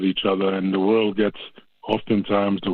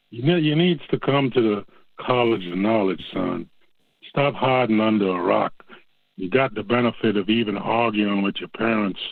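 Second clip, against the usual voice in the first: a mock Southern preacher egging a boy on; horrible Southern accent. Caller gives Joey a mock Southern pep talk, in a bad Southern accent. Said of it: "it's a horrible Southern accent".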